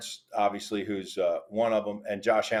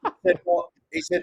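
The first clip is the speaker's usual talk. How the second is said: cartoon mouse. Mickey voice continues.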